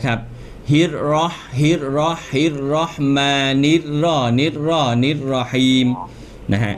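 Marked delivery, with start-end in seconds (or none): 0.7-5.9 "ฮิด รอ" repeated in chunks with unpursed "รอ"; unrounded lips. Shown as a demonstration. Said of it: "พยายามอย่าหอปากนะ".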